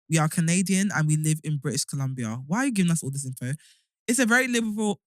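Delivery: reading through a retainer; words slurred by a retainer; wearing a retainer. Real, not acted. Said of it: "My sh-, retainers are fucking me up".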